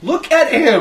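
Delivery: high, loud retold shout; exasperated shout. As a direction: call out over a crowd, acting out the exasperation. Shouting at drunk person's filming friends.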